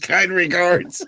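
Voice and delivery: slow, drawn-out mock-formal sign-off; mock polite sign-off. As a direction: savour the irony of the politeness. Mocking the email sign-off.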